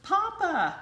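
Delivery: high, loud happy call; joyful cry. A narrator's reading. Ducklings joyfully calling the rabbit papa, loud and high. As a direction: cry out with delight. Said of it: "cried the ducklings".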